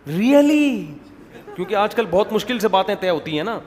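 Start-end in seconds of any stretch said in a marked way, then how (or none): 0.1-0.9 high, loud, stretched disbelief; amazed. Acted. Friend hearing of the engagement, acted amazement. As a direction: squeal it as astonished news-receiver.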